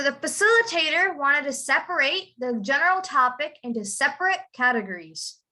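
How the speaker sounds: verb "separate" with full "rate", second "separate" with short "rit"; noun-verb pronunciation contrast. Shown as a demonstration. Teacher modelling the sentence for a student, contrasting endings. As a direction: sound out "ate" in the first "separate", shorten it in the second. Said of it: "you have to pronounce it".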